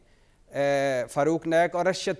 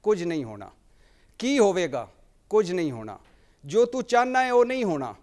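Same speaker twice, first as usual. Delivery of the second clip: short verse lines with pauses, rising higher toward the end; poem recitation; 4 semitones higher than usual. Acted. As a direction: recite Punjabi verse as question and answer. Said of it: "Munnu भाई की एक नज़म है". (पंजाबी नज़्म सुनाने का अंदाज़)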